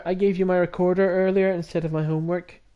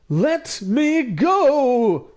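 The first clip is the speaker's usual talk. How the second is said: panicked shout; 9 semitones higher, 6 dB louder, much slower than usual. Acted. Sakuya panicking in haunted house.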